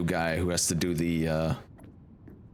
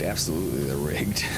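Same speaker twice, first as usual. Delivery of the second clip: conspiratorial whisper; 2 semitones lower than usual. Real, not acted. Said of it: "unvoiced whisper".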